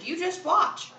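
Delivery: high-pitched defiant challenge; insist, rising high; insistent. A narrator's reading. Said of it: "Kevin insisted".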